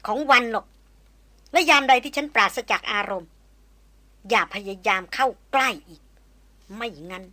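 hard, forceful threat; a cold threat to blow his brains out; menacing warning. Acted. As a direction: warn him off for good. Maria threatens Chayan after strike.

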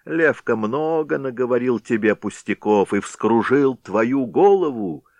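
stranger's voice. A narrator's reading. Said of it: "продолжал высокий человек".

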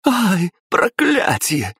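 высокий протяжный визг; завизжать от жгучей боли. A narrator's reading. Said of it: "заверещала Елена". (Елена визжит, её тело горит)

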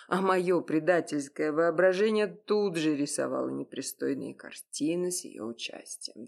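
ordinary delivery, nothing marked

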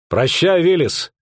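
farewell cry. A narrator's reading. Captain bids dying comrade farewell.

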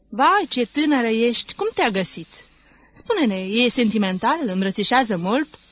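pry at the new bride with gleeful curiosity; eager curious questions. Acted.

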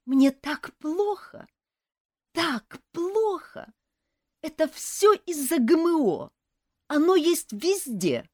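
high, slow tearful wail; crying wail. A narrator's reading. Sick elf wails to nurse, crying. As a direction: sob it out dramatically.

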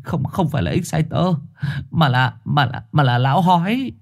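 put-on a light stammering young dog; stammering stray. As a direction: stumble toward the name. Trùn voiced in story.

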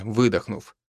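ordinary delivery

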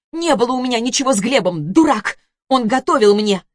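wife shouting down her ex-husband; angry. Acted. Zhanna arguing with ex-husband.

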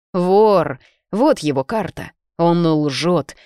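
loud, urgent yelling of thief; shouting alarm. Acted. Voice calls to John to catch the thief, shouting. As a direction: raise the alarm across the room.

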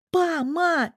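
put-on little boy shrieking with joy; joyful child squeal. A narrator's reading. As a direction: squeal for mum and dad. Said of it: "верещал радостно ребёнок".

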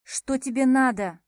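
loud, sharp impatient question. Acted. Heroine demands Max get to the point, loud and impatient. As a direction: snap it out, fed up. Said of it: "нетерпеливо дёрнула плечами".

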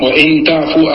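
وإن تعفوا read with "wa-in"; kasra on the hamza. Shown as a demonstration. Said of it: "نعم، عندي بالكسر". (انطق وإن تعفوا بكسر همزة وإن)

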